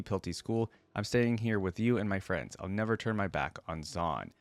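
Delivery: steady, even storytelling read; measured narrator voice reading the tale; story narration. Acted. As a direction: read the lore like an audiobook. Reads lore story aloud.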